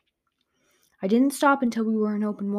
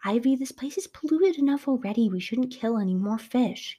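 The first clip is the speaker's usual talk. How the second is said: scolding; 5 semitones higher than usual. Acted. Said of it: "Gigi scolded".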